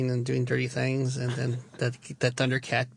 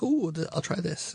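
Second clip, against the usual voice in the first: higher, playful put-on "ooh"; mock intrigued Bond; 5 semitones higher than usual. Reviewer quotes Bond on gadgets, higher mock intrigue. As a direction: imitate a spy eyeing a gadget. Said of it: "and Bond's like".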